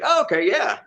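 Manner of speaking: mock convinced. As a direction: play the easily convinced viewer. Voicing a fooled viewer.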